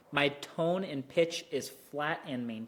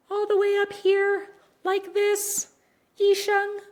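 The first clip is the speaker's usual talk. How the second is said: exaggerated very high, louder "Yisheng"; very high pitch; 7 dB louder, slower than usual. Shown as a demonstration. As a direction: squeak it way up high. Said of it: "pronounce their first tone".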